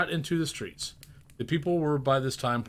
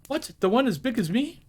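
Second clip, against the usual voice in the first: put-on much higher, boyish astonishment; amazed boy; 11 semitones higher, 4 dB louder than usual. The boy asking about the giant turkey, amazed. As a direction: gape at the size like a lad.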